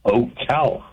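Ocala as oh-KAL-a, short "a" as in cat; Ocala with flat "a". Shown as a demonstration. Local caller corrects host, Ocala with short "a". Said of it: "Is it Ocala or Ocala?".

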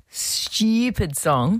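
imitated slow Australian "stupid song"; slow, mock Australian lilt; Australian accent. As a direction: copy the drawn-out Aussie singing. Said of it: "in Australian accent".

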